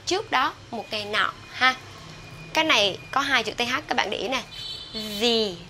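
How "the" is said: "The" drawn out as "thee"; THE before vowel. Shown as a demonstration. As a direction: say "The" with a long ee. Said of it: "trước nguyên âm". (đọc "The" thành "đi" trước nguyên âm)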